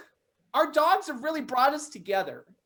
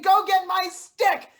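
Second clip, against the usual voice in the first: lightly voiced dog, slower and higher; voicing the dog; 5 semitones higher, 5 dB louder than usual. Owner voicing her dog's demand, a touch higher. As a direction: put on a hint of a dog's voice. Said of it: "It's saying".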